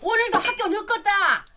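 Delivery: put-on a mother hurrying late children; scolding country mother. Mother scolding kids in dialect.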